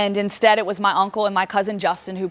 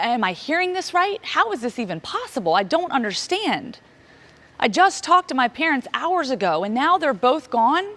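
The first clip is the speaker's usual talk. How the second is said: bewildered disbelief; 6 semitones higher than usual. Retold or imitated. Disbelief at losing both parents.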